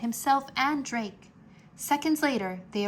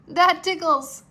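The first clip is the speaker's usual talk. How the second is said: giggly; 9 semitones higher, 9 dB louder than usual. A narrator's reading. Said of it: "Drake giggled".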